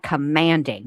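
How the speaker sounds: "Commanding" repeated with firm emphasis; stress on commanding. Real, not acted. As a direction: land firmly on COMMANDING, set apart. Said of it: "Not requesting".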